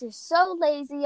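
lightly acted scold, stress on so; mean scolding. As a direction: say so as a mild mock jab. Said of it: "you see how mean she is".

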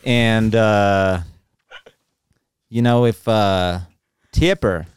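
halting put-on Southern accent; Southern American accent. Co-host carrying on about Tipper in a put-on Southern accent. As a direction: pick your way through it in mock Southern. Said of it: "Answer the Tipper question in this accent".

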